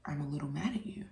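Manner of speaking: put-on whispered like a hurt little boy; a child's sulky whisper in the back seat; son's small whisper. Son answering quietly in car.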